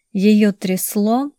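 plain reading voice

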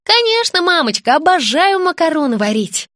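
a put-on smile in the voice; forced sweetness. A narrator's reading. Girl pretending for her mother, forced sugary eagerness. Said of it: "растянула губы в улыбке".

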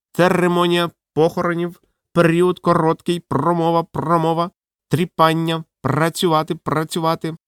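high squawking parrot chant. Acted. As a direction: rattle it off like a parrot. Parrot speaks.

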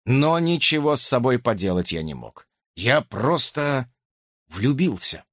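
ordinary talk, nothing marked

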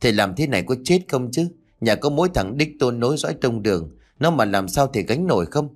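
fast, sharp, blaming scold; wife scolds her father-in-law over the altar, fast and reproachful. Acted. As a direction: rush the blame at him, irritated. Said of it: "gắt gỏng đầy trách móc".

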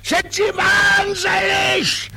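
high, slow, thundering roar. Acted. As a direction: bellow it like an outraged sergeant. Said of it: "donnert er los".

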